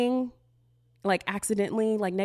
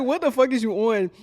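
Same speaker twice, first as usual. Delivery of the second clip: louder, higher mock yell of a baffled friend; 4 semitones higher, 6 dB louder than usual. Friends yelling back at the narrator over a movie, loud and incredulous. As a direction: throw it back loud, half-laughing in disbelief. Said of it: "they be like".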